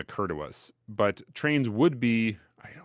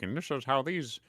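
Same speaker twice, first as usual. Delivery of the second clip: overwhelmed learner voice; 3 semitones higher than usual. Retold or imitated. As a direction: act out a brain giving up. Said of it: "And they're like".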